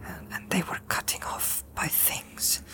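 halting, fearful whisper with long pauses; low, hesitating. A narrator's reading. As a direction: relive the vision in a shaken whisper. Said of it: "In a low, hesitating voice".

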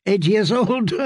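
high, lightly amused court lady; amused noblewoman. Acted. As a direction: play her as a chuckling, high-pitched lady.

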